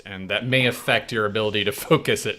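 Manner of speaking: talking over a crunchy snack; crunching chips. Real, not acted. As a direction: crunch pretzels mid-sentence. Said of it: "Sorry about the crunch".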